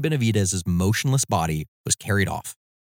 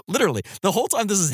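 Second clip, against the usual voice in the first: laughing; 11 semitones higher, much faster than usual. Real, not acted. Laughing at the story's pinching.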